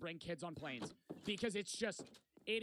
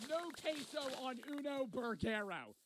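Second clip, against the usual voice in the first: mocking repeat; 5 semitones higher than usual. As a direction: ridicule the bad Spanish, pitched up. Repeating friend's fake Spanish mockingly.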